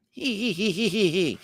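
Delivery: put-on squeaky little-boy tittering; high mock giggle. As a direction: giggle high like a silly kid. Mocking Cam's giggle.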